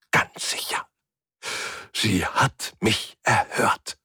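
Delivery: slow, hushed certainty; deeply moved whisper. A narrator's reading. Old man assures the narrator he was heard, moved whisper. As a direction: savour each word in awe. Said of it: "flüsterte er ergriffen".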